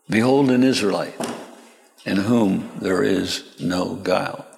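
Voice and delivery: mild, measured reply; unruffled and gentle. Acted. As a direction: answer an insult gently. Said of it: "So Jesus was mild".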